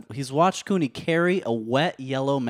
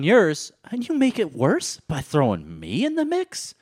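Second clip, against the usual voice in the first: mock outrage; 5 semitones higher than usual. Mock outrage with pitch jumps.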